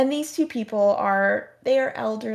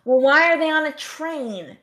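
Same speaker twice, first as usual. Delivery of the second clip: put-on loud, high, slowed old-lady voice, straining to hear; hammed-up confused old woman asking too loud; confused elderly moviegoer; 5 semitones higher, 5 dB louder than usual. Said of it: "the other person would be like".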